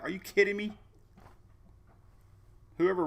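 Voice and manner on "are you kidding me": much higher, disbelieving outburst; incredulous. Retold or imitated. Fed up with the login puzzle, a high, incredulous outburst. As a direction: sound like you can't believe it. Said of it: "I'm like".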